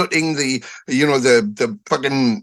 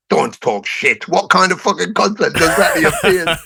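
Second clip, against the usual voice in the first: mock scolding; 3 semitones higher than usual. Father doubting his kid's concert story, mock scolding. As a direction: imitate an incredulous father telling off his kid.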